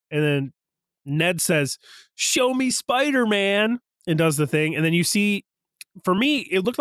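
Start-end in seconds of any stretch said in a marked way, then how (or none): 2.1-3.8 high, slow mock incantation; imitated summoning. Voicing Ned opening the portal, high mock summoning. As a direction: summon him as Ned would, stretched out.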